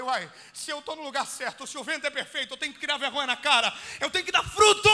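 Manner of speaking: building to a full shout on fruto; rousing self-talk. Retold or imitated. Preacher voicing his own resolve, building to a shout. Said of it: "Eu falei".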